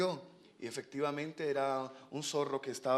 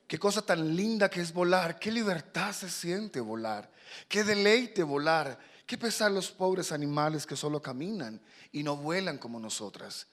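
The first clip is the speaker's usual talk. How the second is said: higher, lilting storybook fledgling; delighted young swallow; 4 semitones higher, 5 dB louder than usual. Acted. Young swallow telling papa how flying feels, delighted. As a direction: marvel at it, drawing out the joy.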